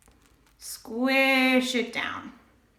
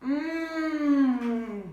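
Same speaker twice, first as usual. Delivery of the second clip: yummy hum. Real, not acted. Tasting the chocolate.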